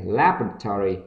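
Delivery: LABORATORY said quickly as one run; quick pronunciation. Shown as a demonstration. Teacher models laboratory for learners, read quickly. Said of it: "đọc nhanh này".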